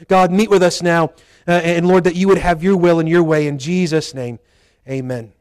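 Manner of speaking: public prayer. Acted. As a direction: pray aloud for the whole church. Leads the congregation in prayer.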